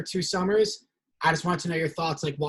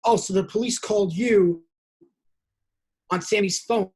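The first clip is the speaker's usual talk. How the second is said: higher, louder mock-incredulous recap; sarcastic disbelief; 4 semitones higher, 5 dB louder than usual. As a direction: spell out how absurd his story is. Mocking a camper's unlikely claim.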